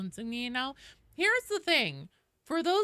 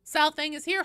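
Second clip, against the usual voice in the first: put-on high, bubbly Valley Girl voice; chirpy Valley Girl announcing; Valley Girl accent; 8 semitones higher, 8 dB louder than usual. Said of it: "The Valley Girl voice".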